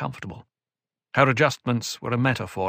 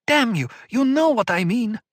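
high, loud angry yell; louder furious shout; 11 semitones higher, 5 dB louder than usual. Acted. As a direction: shout the curse in full fury. Murbella curses louder.

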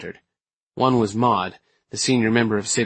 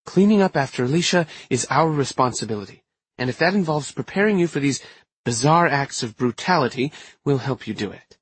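lightly voiced senior witch, pitched up; earnest coven elder; 4 semitones higher than usual. Maud explains the coven's responsibility, lightly voiced earnest elder. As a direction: state it as a dutiful elder, slightly lilting.

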